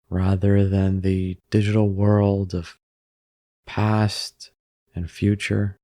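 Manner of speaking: unhurried meditation guide with long pauses; calm, even delivery, leaving room to breathe; guided meditation. Acted. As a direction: guide them gently into stillness, phrase by phrase.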